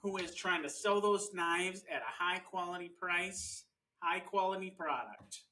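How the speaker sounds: slow, earnest Midwestern defence; mock-solemn Midwest drawn-out vowels; Midwest accent. Spouse defends the hardworking salesman, slow Midwest accent. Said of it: "It's the best accent".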